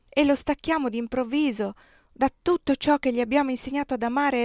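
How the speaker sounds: earnest, mounting moral appeal; fervent, indignant entreaty; impassioned plea. Acted. Wife pleads passionately for the slaves.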